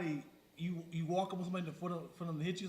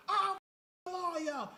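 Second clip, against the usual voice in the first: mock threat; 10 semitones higher, 4 dB louder, slower than usual.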